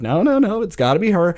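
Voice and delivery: retold villain insisting; mock villain refusal. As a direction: refuse the parents cruelly.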